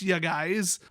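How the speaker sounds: "ya guys" in a thick Wisconsin accent; drawn-out Wisconsin "ya guys" with a rise. Shown as a demonstration. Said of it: "the Wisconsin accent".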